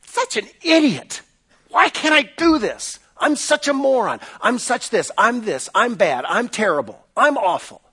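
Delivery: high, pained self-scolding; mock your own harsh inner critic; self-berating inner voice. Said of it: "you're gonna say".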